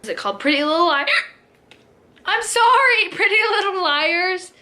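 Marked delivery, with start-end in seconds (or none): 2.2-4.5 high laughing sorry; laughing apology. Real, not acted. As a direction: giggle through it. Laughing correction of herself.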